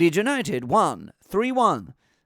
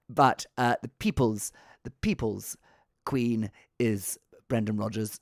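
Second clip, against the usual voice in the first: terrible Tony Blair; 5 semitones lower than usual. Pretend. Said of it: "this is a terrible impression".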